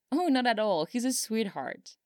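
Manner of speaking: lifted, affectionate lilt; fondly. A narrator's reading. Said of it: "Lambert said fondly".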